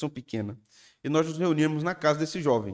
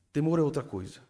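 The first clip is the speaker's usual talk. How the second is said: lighter repeat. Shown as a demonstration. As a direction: lift the repeat and let it fall.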